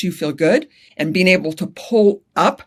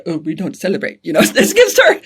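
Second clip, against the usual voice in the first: badly faked British accent; hammed-up British protest, pitch swooping up. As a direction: attempt a British accent and fail. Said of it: "I can't do a British accent".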